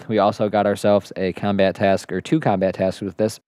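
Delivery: speaking with spit caught in throat; choking on spit. Real, not acted. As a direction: talk through a little choke on saliva. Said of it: "Sorry, I'm choking on my own spit".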